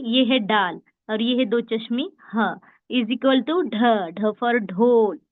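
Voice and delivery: slow, drawn-out letter equation; slow sound demo. Shown as a demonstration. Teacher to online class, slowly showing ढ. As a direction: spell out ढ slowly for learners. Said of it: "अब देखिए".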